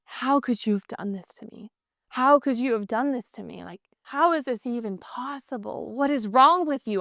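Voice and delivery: acted hurt, disbelieving confrontation; role-played reproach; devastated partner. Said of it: "I'm in mass devastation".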